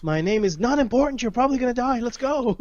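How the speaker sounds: high-pitched character voice, hurrying them along; brusque fighter. Acted. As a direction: dismiss the young warrior in a high, strained voice. Player voices character brushing off warrior.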